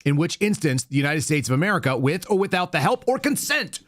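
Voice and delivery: emphatic read rising to a high finish on consent; all-caps reading. Retold or imitated. Host quoting the president's post to viewers, emphatic all-caps reading. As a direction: build pitch through to "help or consent". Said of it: "look what he says in all caps".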